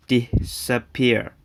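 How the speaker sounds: disappear split into dis, a, pear with small gaps; broken into syllables. Shown as a demonstration. Teacher showing secondary stress, "disappear" slowly broken into syllables. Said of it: "It pronounced".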